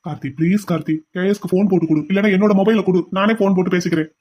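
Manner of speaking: humble plea. Acted. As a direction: beg him gently. Begging the officer.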